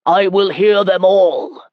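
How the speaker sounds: loud, slow angry order; angry command. A narrator's reading. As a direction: snap the order with rising temper. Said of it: "His voice increased in volume".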